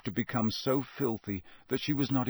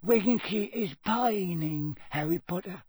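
sad whisper; 9 semitones higher than usual. A narrator's reading. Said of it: "Dobby whispered sadly".

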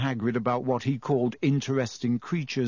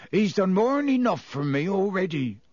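higher groaning giant's voice; groaned; 5 semitones higher than usual. A narrator's reading. Hagrid to Harry, groaning in misery. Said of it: "groaned Hagrid".

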